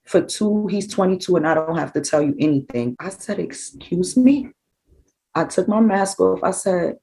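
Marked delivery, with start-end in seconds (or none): 3.4-4.5 slow, high, affronted excuse me; indignant excuse me. Retold or imitated. Mother to the guard who refused to tell her anything, indignant. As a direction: let the insult land, then push back slowly.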